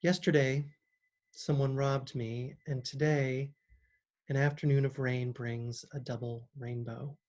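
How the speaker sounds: measured reading, pausing between phrases; poetry reading. Acted. Poet reads her own Double Rainbow to listeners, measured poetry reading. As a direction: give each line room, letting endings settle.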